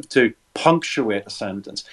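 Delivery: "punctuate" set apart and stressed; emphatic punctuation. Shown as a demonstration. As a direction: lean firmly on the word "punctuate". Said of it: "hear the emphasis in my voice".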